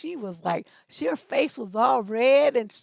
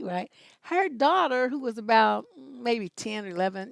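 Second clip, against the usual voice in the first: ordinary delivery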